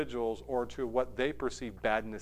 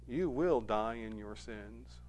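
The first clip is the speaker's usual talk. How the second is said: quiet warning; 4 semitones lower, 8 dB quieter, slower than usual. Acted. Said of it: "it's emphatic".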